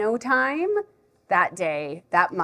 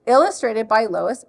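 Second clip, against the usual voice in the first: animated explaining with a surprised lift; lively storytime voice, leaping up at discoveries; reading to a child; 4 dB louder than usual. Shown as a demonstration. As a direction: teach a little one the book cover. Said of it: "read it like I would if a child is here".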